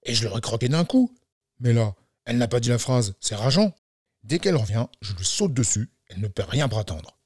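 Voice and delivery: mildly irritated storybook wolf; understated exasperation; annoyed wolf. Acted. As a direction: grumble to yourself in frustration. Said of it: "Le loup s'énerve".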